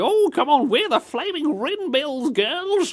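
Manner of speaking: very high, put-on old granny voice. Imagining a granny biker gang cheering each other on: imitating an old granny. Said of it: "a gang of old grannies".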